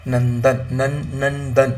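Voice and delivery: नंदन with the न stretched slowly; nasal sound drawn out. Shown as a demonstration. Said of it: "example देखो". (नंदन को नाक से खींचकर बोलना)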